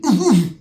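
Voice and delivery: short, high, loud wordless call; imitated summoning noise. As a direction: mimic a curt beckoning noise. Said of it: "That's how he does it".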